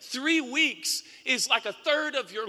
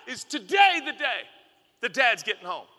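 put-on eager child; 2 semitones higher than usual. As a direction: beg like an impatient ten-year-old. Ten-year-old asking eagerly.

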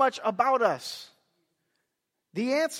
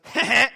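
mischievous giggle; 5 dB louder than usual. Retold or imitated. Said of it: "just goes".

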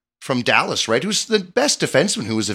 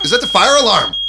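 surprised; 10 semitones higher, 5 dB louder than usual. Real, not acted. Fire alarm goes off mid-show.

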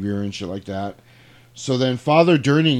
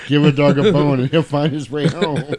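louder, chanted rhyme; 4 semitones higher, 7 dB louder than usual. Pretend. Joking what the note says, loud chanted rhyme. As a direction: belt out the silly rhyme.

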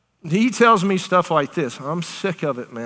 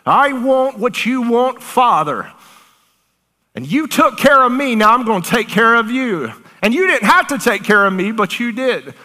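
voice of the soul; 5 semitones higher than usual. Acted. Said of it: "this courage raises up inside the human soul and says".

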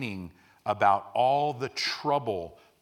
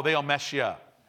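normal talking voice

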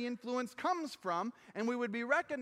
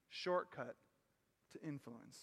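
hushed refrain; 9 semitones lower, 10 dB quieter than usual. Acted. Refrain again, very soft.

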